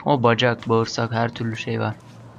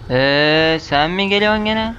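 startled alarm; 5 semitones higher, 5 dB louder, much slower than usual. Real, not acted. Monster appears in horror game.

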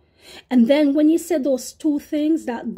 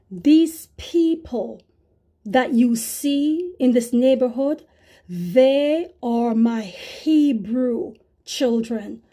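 slow, solemn voice of God; a hint of a solemn divine voice; God speaking; much slower than usual. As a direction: deliver it slowly like a divine pronouncement. God's voice quoted in vision.

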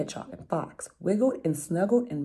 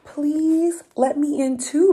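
much higher, louder and slow pleading; begging rabbit; 10 semitones higher, 8 dB louder, slower than usual. Acted. Rabbit begs the mouse to let him in, high and slow. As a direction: plead with big eyes. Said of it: "begged Rabbit".

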